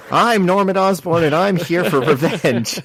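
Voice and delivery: hammed-up villain declaration; mock villain. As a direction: announce yourself like a cartoon villain. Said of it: "they're like".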